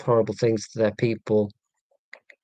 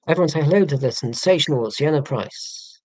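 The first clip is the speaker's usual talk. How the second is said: mock showman intro; 3 semitones higher than usual. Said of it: "without making it sound daft".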